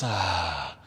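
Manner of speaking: long, falling sighed "ah"; audible exhale. Shown as a demonstration. Yoga teacher demonstrates deep breaths, sighing out. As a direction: let a deep breath out on a sigh. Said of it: "maybe a few deep breaths".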